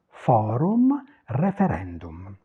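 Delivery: "Forum" and "referendum" ending in oo-m; Italian U-M ending. Shown as a demonstration. Teacher recapping the Italian final U M, oo-m in "Forum" and "referendum". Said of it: "c'est U".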